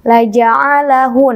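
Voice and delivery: drawn-out chanted reading; slow recitation. Shown as a demonstration. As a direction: model the phrase slowly. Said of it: "betul sekali".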